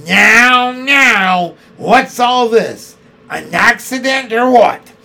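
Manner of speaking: high, loud officious constable; bossy policeman. A narrator's reading. Policeman demanding what the crowd is gawping at. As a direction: bark like a London bobby.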